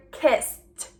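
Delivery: "kissed" with ED as a released t; t ending. Shown as a demonstration. Teacher showing the t sound, "kissed" ending in released t. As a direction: finish "kissed" on a separate t. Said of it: "it will make the t".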